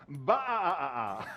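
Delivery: short loud sheep bleat; one firm baa. Pretend. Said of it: "go all together now on a ba".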